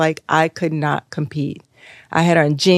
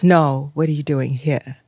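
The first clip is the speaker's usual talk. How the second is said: British woman. Retold or imitated. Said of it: "there was this British woman".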